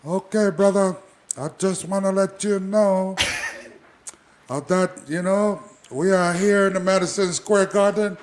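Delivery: high, loud laid-back wrestler voice; Jimmy Snuka impression. Jimmy Snuka greets Don Morocco before the match, high and loud. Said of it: "I think my conversation would be like this".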